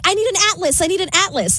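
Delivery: a touch of Phoebe's panic; lightly voiced flustered Phoebe; mock Phoebe. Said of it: "then she's like".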